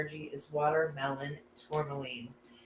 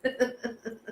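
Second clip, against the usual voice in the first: laughing, a little choked up. Real, not acted. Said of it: "I'm totally a little verklempt".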